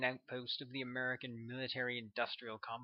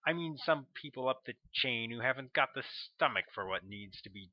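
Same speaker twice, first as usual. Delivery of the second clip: louder, commanding officer laying down the line; forceful colonel; 7 dB louder than usual. A narrator's reading. Colonel correcting the agent about the black op, forceful and commanding. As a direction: press the point like a commander.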